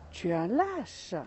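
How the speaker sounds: a hint of an angry yell; mild angry shout. Angry boy insulting the echo, understated. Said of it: "Et il crie".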